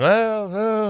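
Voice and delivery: high mock gurgled cries; imitated gurgling moans.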